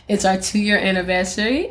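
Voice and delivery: slight British accent; accidental British accent. Real, not acted. Host announcing the podcast's anniversary, slightly British accent. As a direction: let a hint of British slip in. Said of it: "why did I say that in a British accent".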